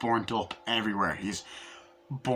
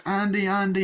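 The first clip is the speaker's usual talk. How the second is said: high, louder mock cries; urgent calling; 9 semitones higher, 5 dB louder than usual. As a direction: call out the name in alarm. Acted calls during the ritual.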